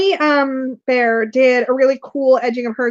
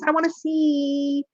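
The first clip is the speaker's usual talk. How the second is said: slow, softer drawn-out whine; playful whining; 5 dB quieter, much slower than usual. Real, not acted. Co-host pleading to see viewers' pictures, whiny. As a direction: stretch it into a pleading little whine. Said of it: "God, you're so whiny".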